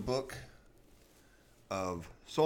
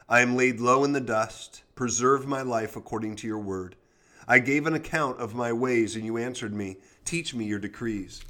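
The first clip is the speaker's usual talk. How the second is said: measured devotional Bible reading; scripture reading. Acted. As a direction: read the psalm steadily. Reads Psalm 119 aloud.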